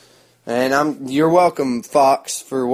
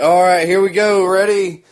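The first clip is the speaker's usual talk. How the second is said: loud, higher warm-up host voice; hyped announcer; 4 semitones higher, 4 dB louder than usual. Retold or imitated. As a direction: pump up the crowd like a cheesy host. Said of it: "they come down there like".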